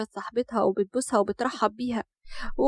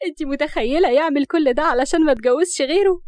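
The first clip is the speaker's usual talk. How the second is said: lively, louder amused disbelief; amused, laughing; 3 semitones higher, 5 dB louder than usual. A narrator's reading. Rahaf telling her friend on the phone, amused. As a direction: tell it with mirth, loudly. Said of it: "وهي بتضحك وبتقول لأسماء".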